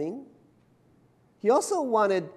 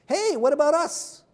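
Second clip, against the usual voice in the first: indignant widows; 11 semitones higher, 5 dB louder than usual. Acted. Greek widows voiced complaining.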